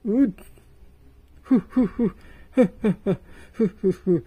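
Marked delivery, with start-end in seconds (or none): 1.4-4.3 chuckling chew. Acted. Guest chewing mochi greedily.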